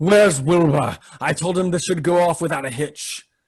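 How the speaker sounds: theatrical, grandly dramatic stage-style delivery. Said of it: "pushes off his side very dramatically and says".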